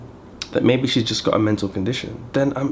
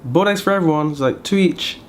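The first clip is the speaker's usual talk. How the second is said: higher sing-song mother-in-law imitation; 4 semitones higher than usual.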